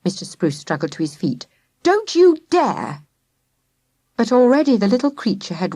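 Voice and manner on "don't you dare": slow, stern warning; stern father warning. A narrator's reading. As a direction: forbid her firmly. Father forbids daughter.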